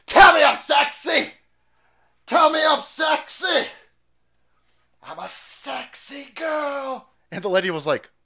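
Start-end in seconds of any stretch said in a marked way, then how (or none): 0.1-7.1 loud, slow, high demanding yell; retold screaming. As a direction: scream it like a tantrum. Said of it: "he would always constantly scream".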